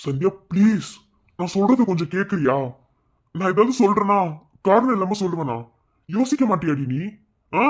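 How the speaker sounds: snapping at his wife to listen; exasperated. Acted. Husband loses patience with wife.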